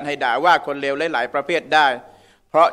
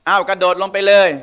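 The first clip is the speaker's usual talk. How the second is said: sarcastic dare; 4 semitones higher than usual. Pretend. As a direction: say it like a sarcastic parent who means the opposite. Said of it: "ประชด". (แม่พูดประชดลูก เสียงสูงขึ้นเล็กน้อย)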